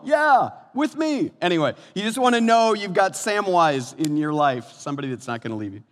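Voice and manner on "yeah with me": high, loud, drawn-out mock hobbit voice; stubborn sidekick, hammed up and slow; Sam. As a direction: answer back loyally in a high stretched cry. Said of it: "what Sam says".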